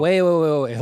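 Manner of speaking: loud, startled "wait, wait"; stunned shout. Real, not acted. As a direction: shout to stop everything, astonished. Stunned by the sudden card death.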